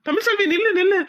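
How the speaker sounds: calling after her. Acted. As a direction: call out to the wife walking away. Husband calls after crying wife.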